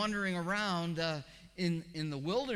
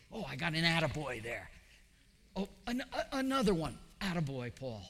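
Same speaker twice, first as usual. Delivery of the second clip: mock self-praise. Mocking self-congratulation.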